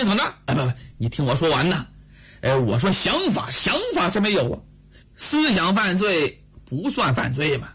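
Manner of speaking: fast, nervous excuses to his wife; flustered husband. Acted. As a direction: talk fast to dodge trouble. Husband hastily defends himself.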